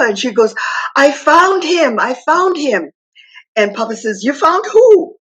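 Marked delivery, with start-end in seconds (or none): 1.0-2.9 put-on higher, eager little girl; bubbling over with news; excited child. Little girl running to Papa with news, excited. 4.2-5.2 high, raised question; surprised and curious; puzzled surprise. Retold or imitated. Papa asking the little girl what she found, surprised.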